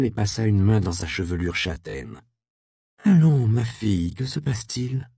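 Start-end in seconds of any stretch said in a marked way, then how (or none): 3.0-5.1 tender mother. Acted.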